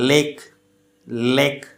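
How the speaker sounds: slow model of lake with a distinct initial l; liquid sound demo. Shown as a demonstration. Teacher showing students liquid consonants, lake slowly with clear l. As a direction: say lake carefully, pause, repeat it. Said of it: "liquid consonant sound कहलाते".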